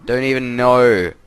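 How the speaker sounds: starts with a high, loud nope, then a lightly put-on, slow girlish voice; hammed-up outraged kid sister; a light comic girl voice in denial; mock girl voice. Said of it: "And then she's like".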